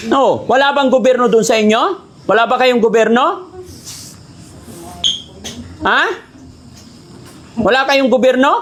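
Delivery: mildly mock-indignant questioning; prank scolding. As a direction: challenge them, feigning annoyance. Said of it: "masigawan tsaka mapagalitan".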